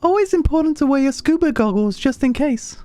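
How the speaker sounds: very high, airy falsetto; squeaky character voice for the game. Pretend. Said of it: "That I do the high voice".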